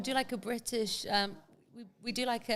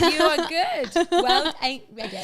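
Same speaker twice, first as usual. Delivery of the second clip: excited praise; 7 semitones higher, 11 dB louder, slower than usual. Real, not acted. Praising, laughing.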